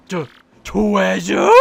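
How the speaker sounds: slow, stammered disbelief; a slow, stuttering gasp of greed; stunned stammer. Acted. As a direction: let the word catch in the throat. Bowser greedy about treasure.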